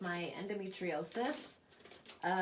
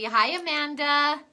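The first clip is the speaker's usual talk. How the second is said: cheery greeting; 9 semitones higher, 13 dB louder, slower than usual. Real, not acted. Greets a viewer joining the live.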